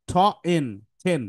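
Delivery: ঠ, then এন, blended into টেন with an aspirated t; phonics blending. Shown as a demonstration. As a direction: sound out টেন from ঠ plus এন. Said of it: "এটা সঠিক উচ্চারণ হচ্ছে".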